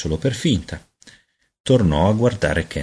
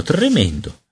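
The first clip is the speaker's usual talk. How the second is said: second "tremendo" much higher, falling; dismayed cry; 8 semitones higher, slower than usual. A narrator's reading. Peter realising he is a baby, high dismayed repeat. Horror at his baby body.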